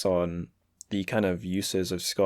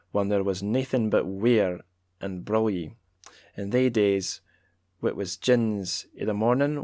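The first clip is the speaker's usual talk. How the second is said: Scots accent. Shown as a demonstration. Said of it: "shall I keep doing the accent?".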